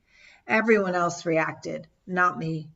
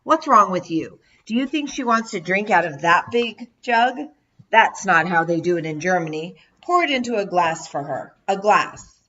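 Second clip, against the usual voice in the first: louder motherly scolding; mother scolding son; 4 dB louder than usual. Retold or imitated. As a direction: tell off the brother. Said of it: "began scolding my brother".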